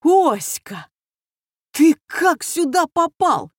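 loud, high astonished shout across the table; loud exclamation. A narrator's reading. Journalist loudly greeting an old friend, astonished shout. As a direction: call out in loud surprise. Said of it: "громко воскликнул".

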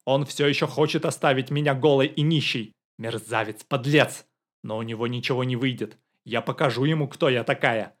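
losing her temper. A narrator's reading. Woman raging at her ex-husband to the visitors, mild fury. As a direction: work yourself up against the ex-husband. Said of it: "окончательно выходя из себя".

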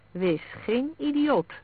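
high, slow, pressing plea; emphatic urging, words drawn out; urgent insistence. A narrator's reading. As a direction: press them hard to see sense. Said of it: "zei hij indringend".

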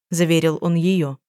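plain reading voice

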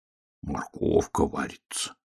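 медленное ворчание себе под нос, приглушённо; проворчи с досадой, передразнивая зайца; ворчливо. Acted. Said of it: "проворчал медвежонок". (медвежонок передразнивает зайца, ворчливо и приглушённо)

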